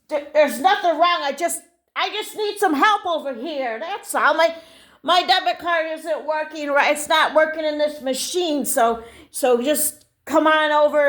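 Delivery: acted testy customer; making a scene. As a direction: defensively press for help. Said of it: "you don't need to make a scene".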